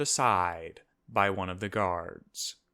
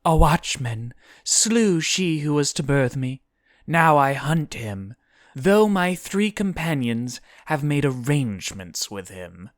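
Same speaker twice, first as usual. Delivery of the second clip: high, loud character voice, telling her grievance; raised, forceful storybook heroine; Guinevere; 6 semitones higher, 5 dB louder than usual. A narrator's reading. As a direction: declare your hunt to the demon. Voices Guinevere explaining her hunt.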